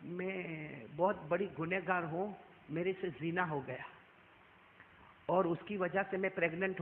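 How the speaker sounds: hushed, halting confession; subdued retelling of a weeping woman; tearful confession. Retold or imitated. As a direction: quietly admit a terrible sin, with long pauses. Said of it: "روتے روتے کیا بولی".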